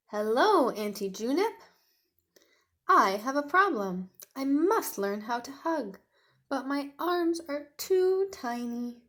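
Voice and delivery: hammed-up young dinosaur, sorry for himself; little dinosaur voice. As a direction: play the sad little T-Rex. Tiny speaks to auntie.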